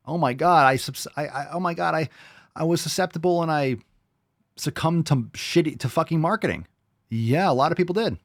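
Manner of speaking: high mocking whine. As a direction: parody his whiny confession. Mocks the guest's confession.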